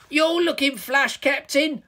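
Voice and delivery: high, loud gloating troll; chuckling troll. A narrator's reading. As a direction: tease the hero in a villainous squeal. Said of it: "chuckled Toilet Troll".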